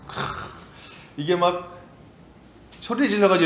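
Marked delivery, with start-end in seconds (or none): none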